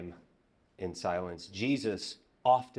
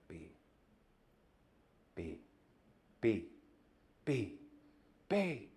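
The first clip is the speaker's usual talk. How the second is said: building mock shout; slower than usual. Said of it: "She starts shouting".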